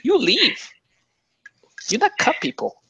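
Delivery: put-on high stern Asian accent. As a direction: scold in a thick Asian accent. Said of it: "do the voice the whole game".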